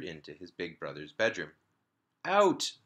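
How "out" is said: sharp loud yell of a big brother; shout. A narrator's reading. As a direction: bark it out, much higher and louder. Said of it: "shouted Daniel".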